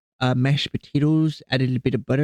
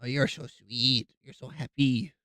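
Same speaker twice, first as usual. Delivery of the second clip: soft cooing to cat; 7 dB quieter than usual. Real, not acted.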